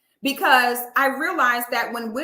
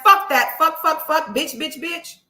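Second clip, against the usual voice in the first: mock cursing; 3 semitones higher, 4 dB louder than usual. Mocking the woman cursing her.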